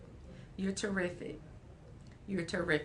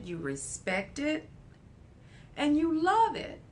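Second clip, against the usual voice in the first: loving parent. Acted. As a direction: speak like a loving parent to a child. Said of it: "that's where we need the empathy".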